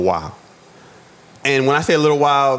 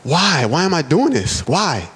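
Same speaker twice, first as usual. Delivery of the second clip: higher-pitched, mildly anguished questioning; imitating a distressed, self-questioning cry; retold tearful plea; 5 semitones higher than usual. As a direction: plead with yourself, only lightly acting out the tears. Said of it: "I'm crying. I'm like".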